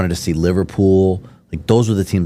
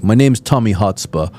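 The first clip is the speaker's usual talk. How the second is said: put-on drunk English fan; 2 semitones higher than usual. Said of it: "how I knew he was drunk".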